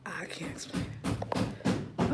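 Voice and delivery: whispered, choked with emotion; slow overwhelmed whisper; emotional, breathy and slow. Real, not acted. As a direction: barely get it out, overcome. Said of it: "I can't even explain to you".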